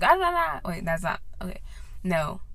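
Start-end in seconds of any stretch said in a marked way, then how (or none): 0.0-0.6 mock British accent. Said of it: "her accent's like".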